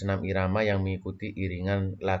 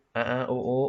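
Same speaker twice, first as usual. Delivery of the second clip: higher, hooting ape call; gorilla sound; 4 semitones higher, faster than usual. Shown as a demonstration. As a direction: hoot like a gorilla. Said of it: "itu suara gorila".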